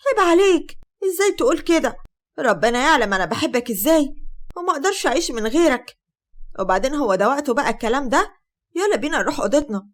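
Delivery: high, loud fake outrage; mock offended bride. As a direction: act wounded, pitch up and loud. Sheimaa feigns offended love.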